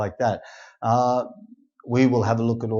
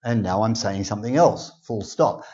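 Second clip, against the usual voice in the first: mock reading out full stops. Shown as a demonstration. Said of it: "we don't say".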